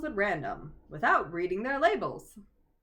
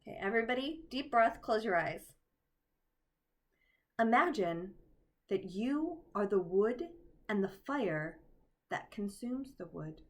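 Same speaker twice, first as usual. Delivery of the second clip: guided meditation. Shown as a demonstration. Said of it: "Try this meditation".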